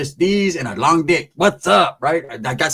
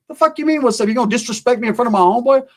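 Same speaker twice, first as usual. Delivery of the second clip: mock outrage; 8 semitones higher than usual. Jealous boyfriend keeps confronting.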